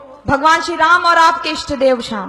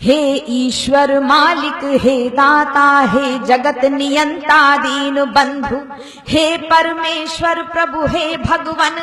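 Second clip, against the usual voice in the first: measured, chant-like invocation in verse; poem recitation; 3 dB louder, slower than usual. Acted. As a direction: recite a prayer poem with sustained, even tones. Recites her devotional poem.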